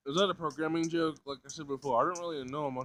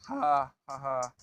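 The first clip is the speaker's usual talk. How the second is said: weak nervous laugh; slower than usual. A narrator's reading. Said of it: "broke out into a weak, nervous laughter".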